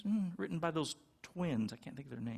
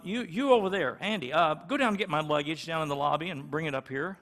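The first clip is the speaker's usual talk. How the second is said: bossy team leader; faster than usual. Retold or imitated. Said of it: "a team leader will say".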